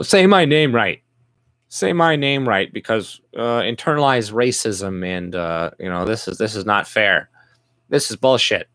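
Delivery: lampoon the aggrieved newcomer; mocking a complainer. Mocking immigrants who demand respect, whiny mock voice.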